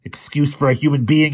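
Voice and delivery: loud, high, slow furious roar; slow high roaring rage. A narrator's reading. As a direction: roar the insult at him. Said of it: "he roared".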